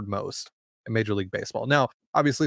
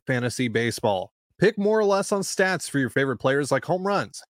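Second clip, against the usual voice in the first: upbeat sponsor read, pitched up; 3 semitones higher than usual. Acted. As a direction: sell it like a radio ad. Host reads a sponsor ad.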